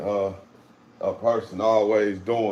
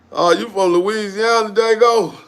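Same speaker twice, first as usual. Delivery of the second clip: surprised friend; 8 semitones higher, 11 dB louder than usual. Retold or imitated. Retold guy surprised by hometown.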